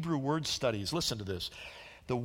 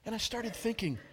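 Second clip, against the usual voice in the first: usual speaking voice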